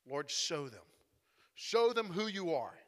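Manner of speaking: low, measured prayer; understated, earnest appeal to God; praying. Acted. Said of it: "he starts praying to the Lord".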